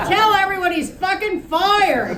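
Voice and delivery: high, loud demand; enraged order; raging order. Acted. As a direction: order it in fury. Enraged Cleve ordering the rep.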